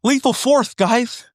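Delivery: high odd comic voice with a lisp; put-on voice. Shown as a demonstration. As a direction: squeak it out in a silly character voice. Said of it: "trying to do this voice makes me fucking lispy".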